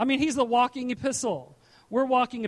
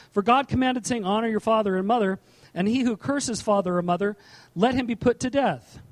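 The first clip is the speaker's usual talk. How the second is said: louder, measured Bible reading; scripture reading; 4 dB louder than usual. Acted. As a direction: read the verse out to the congregation with weight. Reads scripture aloud.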